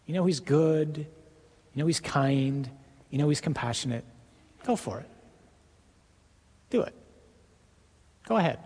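a light sketch of a tempting devil, sweet then hushed; gentle enticing devil. Acted. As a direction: lure them in sweetly as the devil. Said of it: "being kind and gentle and enticing".

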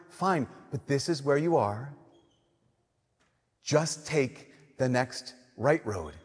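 calm inner voice. Retold or imitated. Preacher voicing the calm inner voice answering his frustration, soft and slow. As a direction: gently talk yourself down.

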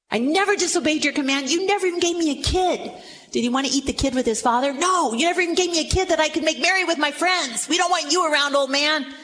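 elder son snapping at his father, lightly acted; resentful son. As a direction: sulk and accuse at once.

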